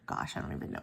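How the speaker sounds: under-the-breath mutter to herself; muttered aside. Real, not acted. Vlogger checking a sticker kit, muttering under her breath. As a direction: drop to a voiceless mutter, half to yourself.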